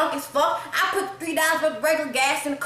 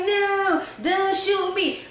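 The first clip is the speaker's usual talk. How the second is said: mock terrified plea; 6 semitones higher, much slower than usual. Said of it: "she like".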